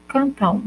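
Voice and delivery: cantam terminando em u, cantãu; final u sound. Shown as a demonstration. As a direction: diz cantam com som de u no fim. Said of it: "pronunciando U no final". (cantam pronunciado com u final)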